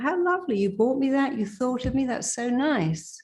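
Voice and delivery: high, delighted gushing over a gift; gushing thanks. Acted. Coach acting out receiving a gift, delighted and high. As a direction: gush with delight at being thought of.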